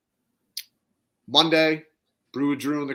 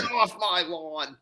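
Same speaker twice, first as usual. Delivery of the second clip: shouting at trespasser; 3 semitones higher, slower than usual. Pretend. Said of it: "old man rant".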